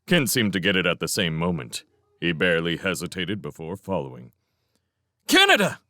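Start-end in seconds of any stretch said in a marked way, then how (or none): 5.3-5.8 high, loud call. Acted. Felix calls Showen on the radio, loud. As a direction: call out loudly. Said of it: "Felix called again".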